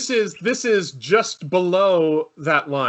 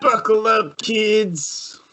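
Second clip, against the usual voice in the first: Billy Corgan impression; 5 semitones higher, much slower than usual. Repeats friend's impression.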